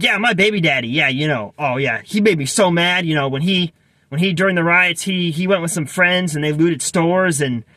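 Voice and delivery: lightly imitated inner-city Black accent; a hint of her inner-city Black accent. Cashier complaining about her boyfriend, lightly imitated inner-city Black accent. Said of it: "I'm gonna do a terrible job imitating her accent".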